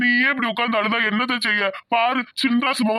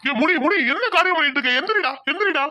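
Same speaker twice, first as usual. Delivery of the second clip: higher-pitched, urgent remonstrance; alarmed urging; 4 semitones higher than usual. Acted. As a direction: urge him up in alarm. Master urges kneeling servant to rise.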